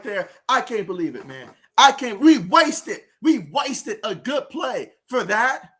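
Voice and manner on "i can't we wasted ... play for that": angry. Real, not acted. Still fuming about the wasted play.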